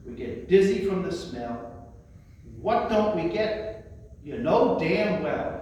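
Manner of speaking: lyrics recited in rhythm, not sung; yearning but comedic verse recitation; spoken song recitation. Acted. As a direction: recite it like a sailor's comic lament.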